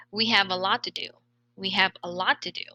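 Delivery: "lot to" run together with a single t; linked as one word. Shown as a demonstration. Teacher models linking for students to repeat, linked as one word. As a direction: say "We have a lot to do" in one joined stream. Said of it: "read it as one word".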